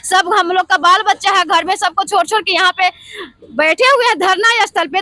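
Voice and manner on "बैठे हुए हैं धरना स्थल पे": real tears while speaking; crying. Real, not acted. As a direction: voice breaking into tears. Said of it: "इस बहन को आंख से आंसू आ रहा है". (रोते हुए, रुंधी आवाज़ में)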